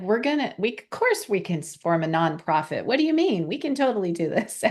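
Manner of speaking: imitating a pushy partner, incredulous jump up in pitch; pushy insistence. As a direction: brush off doubt, quoting her can-do push. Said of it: "Leah who pushed and said".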